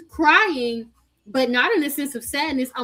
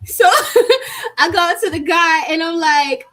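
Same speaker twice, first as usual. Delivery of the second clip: high laugh into the telling; giggling retelling; 6 semitones higher, 6 dB louder than usual. Real, not acted. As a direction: laugh at her own mistake. Laughing about sitting in coach.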